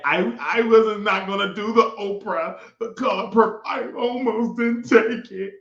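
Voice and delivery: lightly mocking Taraji. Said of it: "'cause you said".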